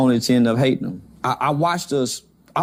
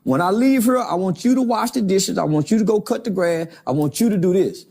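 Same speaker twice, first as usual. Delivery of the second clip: higher, sweet-asking mom voice; mom asking nicely; 5 semitones higher than usual. Retold or imitated. Grandmother telling the kids their chores, asking nicely and pitched higher. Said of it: "She say it nicely the first time".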